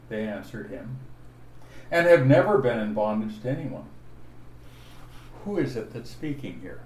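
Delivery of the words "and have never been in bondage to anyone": "and have never been in bondage" loud and quick; emphasis on the quote. Shown as a demonstration. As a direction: drive hard through "never been in bondage to anyone". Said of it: "what receives emphasis is what they said".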